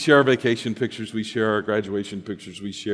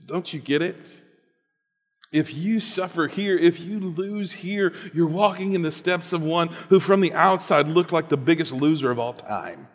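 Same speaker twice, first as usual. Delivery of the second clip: higher, pleading inner voice; other inner voice; 6 semitones higher than usual. Acted. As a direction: urge it gently from within. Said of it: "there's another voice that says".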